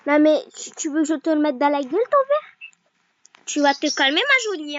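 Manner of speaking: loud, hammed-up menace, pitch leaping up at the end; threatening a cartoon rival, half joking; mock threat. Player mock-threatening the rival who took her glass, loud and hammy.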